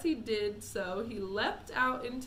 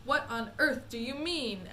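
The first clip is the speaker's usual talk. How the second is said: sharply; 3 semitones higher, 4 dB louder than usual. Acted. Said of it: "asked Mister T V sharply".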